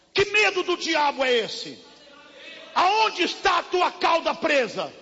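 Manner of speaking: loud, high, shouted sermon; full-force Pentecostal pastor shouting; fiery preaching. Acted. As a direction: hammer the church with rebuke.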